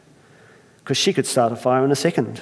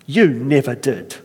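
incredulous Irish. Acted. Earthmaker astonished, Irish accent. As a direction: repeat it in astonishment. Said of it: "I can't help but try it".

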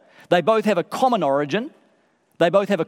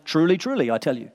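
solemn Jesus quote; 5 semitones lower, faster than usual. Retold or imitated. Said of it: "Like Jesus saying".

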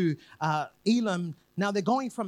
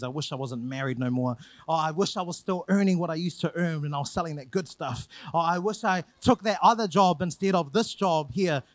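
lower, self-pitying moan about the past; mock grumbling; 5 semitones lower than usual. Preacher imitating people who wish for the old days, in a low mock grumble. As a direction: sigh out the regrets like a sulky grumbler.

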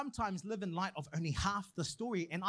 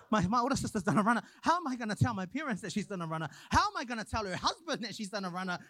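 retold panic; faster than usual. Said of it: "stressing out".

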